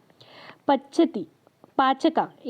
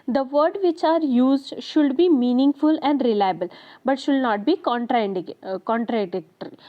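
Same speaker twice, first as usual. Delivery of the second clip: reading a definition aloud very slowly; slow dictation; much slower than usual. Acted. Teacher dictating a definition to the class, very slowly. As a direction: spell it out slowly for students to note down.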